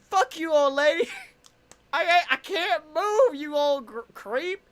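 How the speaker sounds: high, loud comic outrage; retold angry yelling. Stalled driver back at old lady, mock-furious yelling. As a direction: shout back exasperated, stammering.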